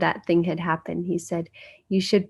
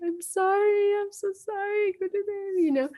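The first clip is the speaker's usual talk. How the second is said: mock drawn-out, very high, slow, tearful crying plea; 14 semitones higher, 4 dB quieter than usual. Retelling an apology to the guru: imitating own past crying apology. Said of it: "I was crying".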